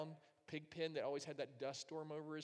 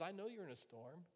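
gentle reassurance; 3 semitones higher, 5 dB quieter than usual. Retold or imitated. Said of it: "God says".

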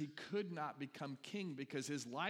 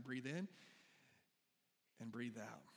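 guided breath cue; 3 semitones lower, 5 dB quieter than usual. Shown as a demonstration. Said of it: "One more time".

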